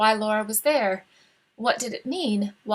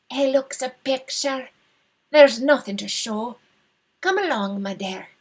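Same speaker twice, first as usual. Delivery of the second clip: fond and sly; 2 semitones higher than usual. Acted. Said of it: "her voice sounded fond and sly".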